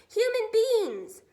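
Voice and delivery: giant yell. Acted. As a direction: yell it with hungry glee. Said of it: "the flesh lump eater yelled".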